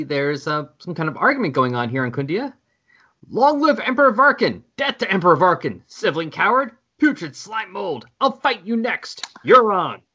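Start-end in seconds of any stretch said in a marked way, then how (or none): 3.3-10.0 brawling shouts. Acted. Squabbling Khunds shout insults.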